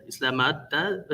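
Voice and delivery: hesitant try at Islamabad, unsure of the sounds; unsure attempt at "Islamabad"; mispronounced place name. Real, not acted. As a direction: stumble into "Islamabad", ending on a questioning rise.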